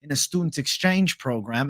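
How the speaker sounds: lightly mocked-up English accent; put-on English accent. Salesman bluffing a customer about being an exchange student, put-on English accent. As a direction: pretend to be English, trolling. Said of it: "I'm from England".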